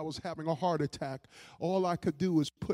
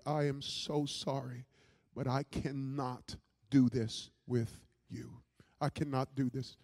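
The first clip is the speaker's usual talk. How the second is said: subdued apology; 3 semitones lower than usual. Retold or imitated. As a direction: voice the wife's firm, sorrowful apology. Wife's repeated apology, retold.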